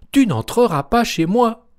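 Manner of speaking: very high, loud squeaky piglet no; little pig refusing. A narrator's reading. The little pig refuses the wolf, high loud squeal.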